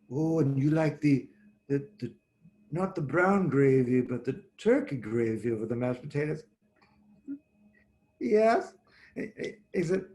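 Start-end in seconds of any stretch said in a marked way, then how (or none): 0.1-6.4 lightly voiced soft Middle Eastern accent; a hint of a gentle Middle Eastern host recognizing a regular; mild Middle Eastern accent, friendly and amused. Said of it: "kind of a soft Mideastern, kind of lovely accent". 8.2-8.7 a higher, louder thrilled yes; excited, louder yes; delighted yes. Retold or imitated. Delighted at being recognized.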